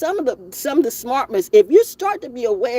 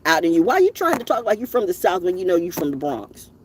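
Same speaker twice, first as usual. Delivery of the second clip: mock scolding friend; 3 semitones higher than usual. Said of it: "Instead of".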